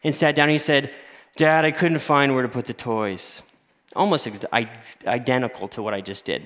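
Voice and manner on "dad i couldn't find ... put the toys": a hint of a listless kid, barely voiced; lethargic son. Pastor imitates his son's excuse, mildly lethargic. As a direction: imitate the child's half-hearted excuse, lightly. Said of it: "that's how it sounded".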